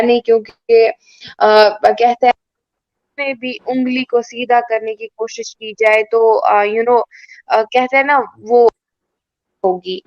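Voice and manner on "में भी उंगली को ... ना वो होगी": choppy call audio dropping in and out; breaking up space radio. Real, not acted. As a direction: voice cutting out on a bad line. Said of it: "आपकी आवाज cut रही है".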